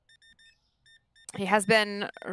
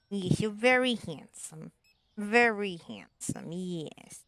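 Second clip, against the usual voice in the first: slow cooing praise; much slower than usual. Real, not acted.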